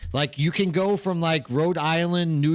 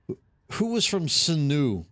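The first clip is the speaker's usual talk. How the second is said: ordinary talk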